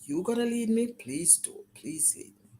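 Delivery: hushed prayer. Retold or imitated. Guest re-enacting a whispered plea to God, hushed.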